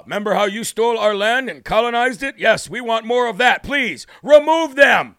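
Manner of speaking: hammed-up imitation Native American accent, stilted delivery. Host voicing a tribe asking for containers moved, mock Native American accent. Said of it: "Sorry for my Native American accent".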